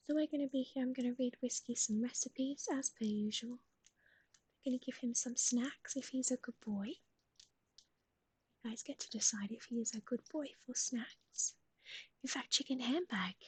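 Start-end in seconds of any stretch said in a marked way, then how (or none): 2.7-11.5 whisper. Acted. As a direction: keep it hushed and intimate. Whispers plans to viewers.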